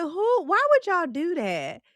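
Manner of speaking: tag retold disbelief. Retelling own baffled reaction.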